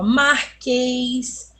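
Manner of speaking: "marquês" drawn out slowly with a closed final E. Shown as a demonstration. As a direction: stretch "marquês" in two syllables, "ê" as in "ay". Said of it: "ele tem um som mais fechado".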